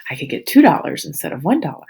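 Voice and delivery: high delighted "Ooh" then a quick gleeful rush; excited kids. Retold or imitated. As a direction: play thrilled little kids counting their money. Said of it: "and like".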